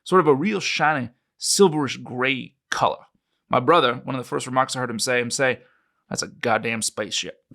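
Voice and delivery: put-on a light New Mexico ranch-country accent; Roswellian accent. Witness describing the crash site to his interviewer, lightly Roswellian accent. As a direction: tell it like a Roswell local witness. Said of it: "my best attempt at a Roswellian accent".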